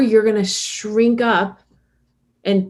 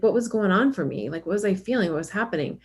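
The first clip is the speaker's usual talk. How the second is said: kind self-talk; faster than usual. Retold or imitated. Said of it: "parent ourselves in a kind way".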